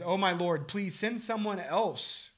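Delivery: high, slow, drawn-out plea; mock desperate plea; pleading Moses. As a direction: beg to be let off, stretching it out. Moses begging to be excused.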